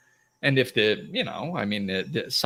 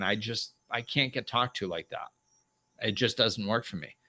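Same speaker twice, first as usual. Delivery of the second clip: lower, softer, matter-of-fact refusal; soft self-love boundary; 4 semitones lower, 6 dB quieter than usual. Acted. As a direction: quietly make it about yourself. Models blame-free boundary.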